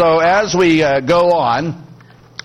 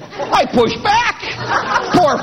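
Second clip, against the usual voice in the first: laughing; much slower than usual. Real, not acted. Punchline of resisting the push.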